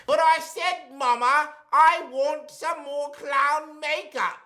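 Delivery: put-on high silly British clown accent; British accent, a clown hamming it up. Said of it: "doing the British clown voice".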